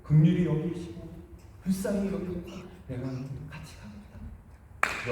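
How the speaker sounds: a gentle divine promise, lightly voiced; quietly granting the people's plea; God relenting gently. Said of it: "다시 마음을 돌이키셨어요".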